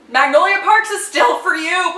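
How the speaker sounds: ordinary delivery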